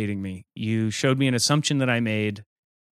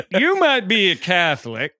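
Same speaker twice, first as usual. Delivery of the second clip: laughing stand-up punchline; 7 semitones higher, 4 dB louder than usual. Pretend. Stand-up Pope callback, laughing.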